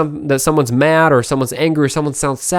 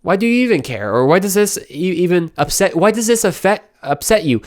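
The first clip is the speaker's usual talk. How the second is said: mock argument; 3 semitones higher than usual. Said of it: "we're arguing with someone".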